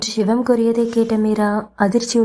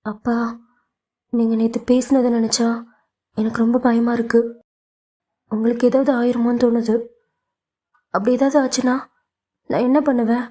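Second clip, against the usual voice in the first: quavering, frightened; 3 semitones higher, faster than usual. Acted. Daughter confessing fear to her father, mild quaver. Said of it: "மீராவின் குரல் தழுதழுத்தது".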